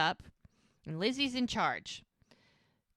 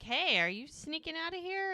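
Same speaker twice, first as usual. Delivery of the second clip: mock preacher voice; 10 semitones higher than usual. Retelling preacher catching her.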